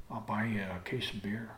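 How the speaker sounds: tempting bribe. Retold or imitated. Bribing brother with beer.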